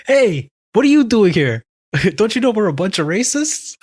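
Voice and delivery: high, loud heckler call, playfully retold; imitated yell. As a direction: mimic a guy hollering across a crowd. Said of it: "This one guy yells out".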